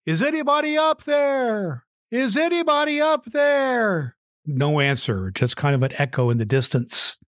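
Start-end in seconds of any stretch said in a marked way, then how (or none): 0.1-4.2 a stranded hiker shouting for anyone above; calling up for help. Acted. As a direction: yell upward, desperate to be heard. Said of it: "So he called up".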